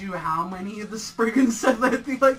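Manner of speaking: incredulous. Real, not acted. Incredulous rant about Spriggans.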